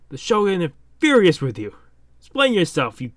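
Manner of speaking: indignant scolding. Acted. Retainer scolds Luffy for leaving.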